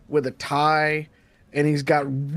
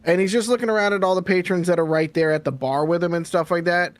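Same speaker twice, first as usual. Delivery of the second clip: ordinary delivery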